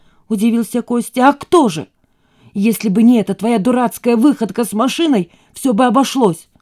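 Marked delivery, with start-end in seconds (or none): 1.3-6.5 higher, louder scolding; angry mother. Acted. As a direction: scold him hotly. Mother angrily blames son. (сердито, громче)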